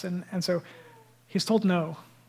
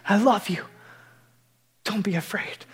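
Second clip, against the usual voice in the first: tender Jesus voice. Retold or imitated.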